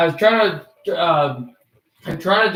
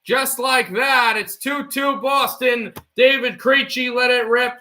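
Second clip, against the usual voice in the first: excited goal call; 6 semitones higher, slower than usual. Acted. Streamer calling the Bruins' tying goal, excited shout. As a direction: belt out the tying goal like a thrilled announcer.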